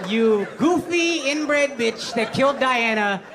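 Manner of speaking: drawn-out, laughing insults; slow mock rant. Real, not acted. Cursing the Queen to his co-host, slow laughing mock rage. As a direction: savour each insult slowly.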